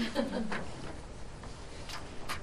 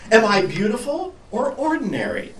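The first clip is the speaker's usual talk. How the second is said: high, louder pleading cry; 9 semitones higher, 5 dB louder than usual. Acted. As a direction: cry out the question, lost. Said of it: "she cried".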